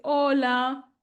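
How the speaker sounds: put-on bright, friendly hello to a child; friendly greeting. Shown as a demonstration. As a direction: greet the toddler warmly. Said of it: "usted le dice".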